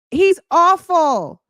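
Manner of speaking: slow, in a put-on voice; slow, mock-voiced repeat; disgusted, put-on voice. Real, not acted. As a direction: say it again in a different voice.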